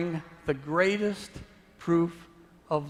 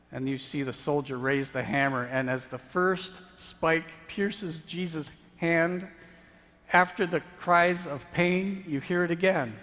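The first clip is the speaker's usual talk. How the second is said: building sermon intensity; 3 semitones higher than usual. Acted. Preacher to congregation, building urgency. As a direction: paint the crucifixion with rising force.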